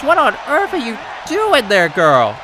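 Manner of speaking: what is she doing, disbelieving; incredulous. Real, not acted. Incredulous at wrestler's move.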